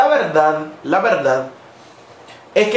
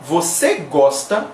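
slow demo; 4 semitones lower than usual. Shown as a demonstration. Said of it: "nosotros podemos decir".

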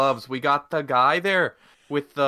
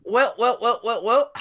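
hammed-up villain gloat; 8 semitones higher, 4 dB louder than usual. Co-host's theatrical entrance.

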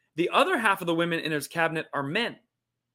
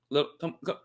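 ordinary delivery

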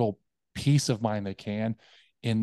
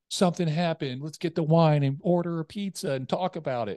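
higher, tempting party-friend voice; pushy friends; 7 semitones higher than usual. Retold or imitated. Friends coaxing you off your diet, tempting. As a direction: lure them in with wine and pizza. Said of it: "they're like".

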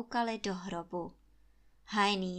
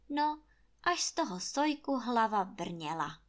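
usual speaking voice

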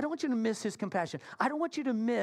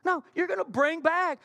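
raised, emphatic mock scolding; indignant insistence; 7 semitones higher, 4 dB louder than usual. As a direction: lay down the law to a borrower. Acted demand for blower back.

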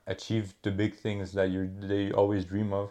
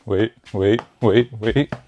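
shouting wait; 8 dB louder, much slower than usual. Real, not acted. Calling out during keep-up attempt.

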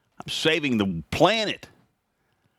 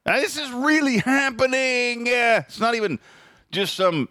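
high, insistent this is really happening; astonished insistence; emphatic disbelief; 11 semitones higher than usual. Real, not acted. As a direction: stress that it's no joke. Insisting it's real.

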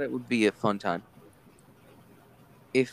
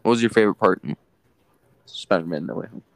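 louder repeat; 7 dB louder than usual. Real, not acted. Repeating an unheard question.

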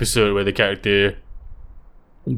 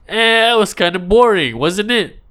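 mock cartoon character; 10 semitones higher, 4 dB louder than usual. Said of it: "being like".

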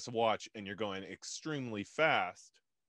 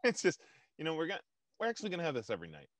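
Trump impression; 5 semitones higher, much faster than usual. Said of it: "one of those presidential".

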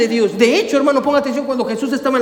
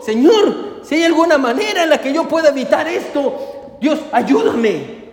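retold plea, raised then slowing right down; Jesús pleading; 3 semitones higher than usual. Preacher voicing a prayer in Gethsemane, pleading. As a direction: beg earnestly, drawing out the final cry for help. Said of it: "suplicarle a Dios diciendo".

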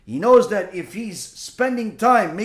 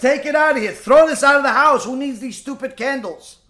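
raised-pitch impatient husband, acted; mock exasperated order; 4 semitones higher, 3 dB louder than usual. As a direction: imitate someone fed up and dismissive. Husband orders candles thrown out.

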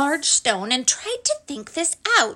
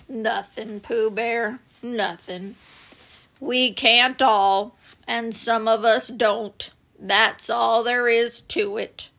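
gloomy Eeyore. Acted. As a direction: sigh it out like a sad old donkey. Eeyore glum reply.

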